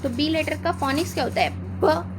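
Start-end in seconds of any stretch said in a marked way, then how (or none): 1.8-2.1 ब as a short buh, no letter name; letter sound demo; phonic b sound. Shown as a demonstration. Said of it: "ये होता है उसका फोनिक्स".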